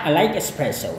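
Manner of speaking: I like espresso said as a clear model sentence; example sentence demo. Shown as a demonstration. Teacher gives an example sentence. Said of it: "Contoh kalimatnya adalah".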